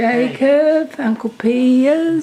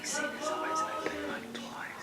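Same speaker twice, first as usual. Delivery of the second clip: hushed whisper; 5 semitones higher, 18 dB quieter than usual. Real, not acted. Hushed talk beside sleeping baby.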